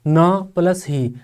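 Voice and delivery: ना and ही said as separate slow beats; syllable breakdown. Shown as a demonstration. Teacher showing students two flows in a word, syllable breakdown. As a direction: split it slowly into ना, plus, ही. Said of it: "नहीं में दो flow हैं".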